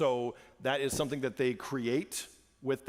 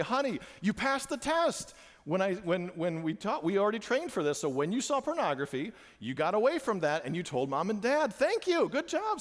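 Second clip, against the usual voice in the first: put-on praising child; 5 semitones higher than usual. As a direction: praise her like a proud dad. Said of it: "I say".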